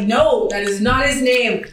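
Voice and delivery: slow, firm denial; a hint of a heated argument; retold insistence. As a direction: insist they have the name wrong. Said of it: "arguing with this person like".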